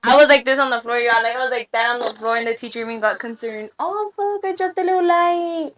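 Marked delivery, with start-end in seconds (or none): 3.8-5.7 high startled yelp, then softer; startled blurt. Real, not acted. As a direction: blurt it as the light falls. Real mishap dropping studio light.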